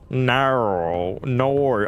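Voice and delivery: drawn-out Australian "No"; put-on Australian accent. Shown as a demonstration. Streamer trying the accent viewers expect, put-on Australian accent. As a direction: say "No" in a broad Aussie accent. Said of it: "that's not how I say no".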